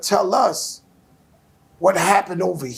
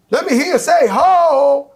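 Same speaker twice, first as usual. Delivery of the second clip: loud hype-man chant; mock concert call; crowd call; 8 semitones higher, 6 dB louder than usual.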